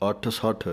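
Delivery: ਅੱਠ ਸੱਠ with a firm ਠ, no ਟ; clear ਠ sound. Shown as a demonstration. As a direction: give ਸੱਠ a clean ਠ ending. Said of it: "ਠੱਠੇ ਦੀ ਆਵਾਜ਼ ਹੀ ਕੱਢਣੀ ਹੈ". (ਸੱਠ ਵਿੱਚ ਠੱਠੇ ਦੀ ਆਵਾਜ਼)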